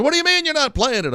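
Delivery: high, fast, outraged demand; mock the consultant's fury; livid consultant. Host imitating the livid record consultant, high-pitched and fast. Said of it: "The consultant is livid".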